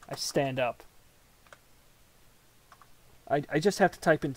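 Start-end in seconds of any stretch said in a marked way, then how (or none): none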